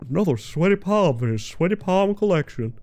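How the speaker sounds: lightly Southern cartoon lead after a laugh; hint at a Southern lawyer's accent. Streamer joking about the palm collection, light Southern accent. Voicing the film lead again.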